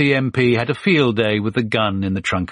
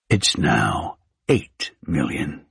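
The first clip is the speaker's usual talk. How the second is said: a light drawl, slow and low on the price; slow Mississippi drawl; 5 semitones lower, much slower than usual. A narrator's reading. Big Tony naming his new price, in a light slow Mississippi drawl. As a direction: savour each word in a Mississippi drawl. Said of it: "slow Mississippi drawl".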